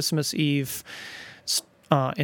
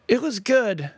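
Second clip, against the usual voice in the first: loud verdict; 8 semitones higher, 3 dB louder, slower than usual. Retold or imitated. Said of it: "He thought loudly".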